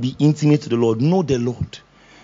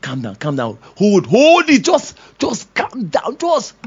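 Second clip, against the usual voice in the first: soothing Lord; 3 semitones higher, slower than usual. Acted. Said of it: "the Lord telling you".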